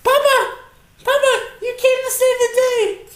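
eager calling out; mock childlike delight. Son hailing papa on the podcast, excited cry. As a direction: hail your rescuer like an excited child. Greets arriving father figure.

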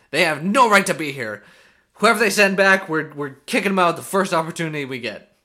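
loud, petulant whining; whiny Andrew. Retold or imitated. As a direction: whine it like a sore loser. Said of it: "a little whiny piss baby".

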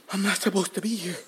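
retold panic.

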